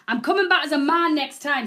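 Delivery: loud, fed-up quip; exasperated joke. Real, not acted. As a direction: throw it out half laughing. Joking exasperation.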